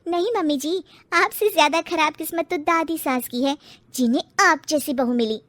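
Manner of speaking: taunting jab. Acted. Bride taunts mother-in-law.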